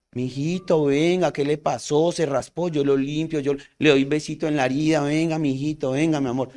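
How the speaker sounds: lightly voiced doting mom; tender mother. Mother to her child who fell and got scraped, tenderly. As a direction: coax a hurt little child gently. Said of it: "frente a la mamá ve la ternura".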